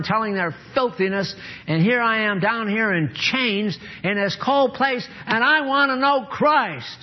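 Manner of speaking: Paul longing from his prison cell, high and pleading; voicing Paul. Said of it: "Now notice what Paul says".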